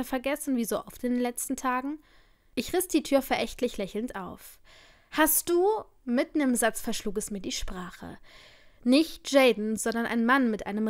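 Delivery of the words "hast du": erfreut. A narrator's reading. Cheerful door greeting, cut short.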